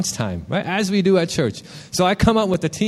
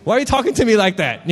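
mildly indignant, higher-pitched retort; mock-offended inner protest; retold indignant anger; 5 semitones higher than usual. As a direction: act out a touch of wounded anger. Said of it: "I got all angry".

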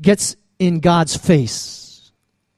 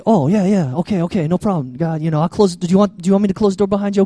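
meek, hurried appeasing; mock passive compliance; faster than usual. Passive believer placating an angry God, meekly compliant. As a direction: agree quickly and back away, playfully deferential. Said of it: "for us as maybe passive Asians".

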